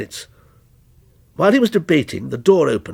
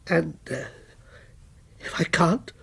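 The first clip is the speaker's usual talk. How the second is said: softer, hesitant question; whispered; 7 dB quieter than usual. A narrator's reading. Writer whispering to his threatening character, afraid. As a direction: breathe it out in fear. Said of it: "whispered Walter".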